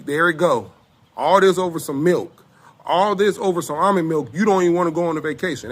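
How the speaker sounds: loud, heated retold rant. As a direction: raise your voice, fed up. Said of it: "my voice is carrying".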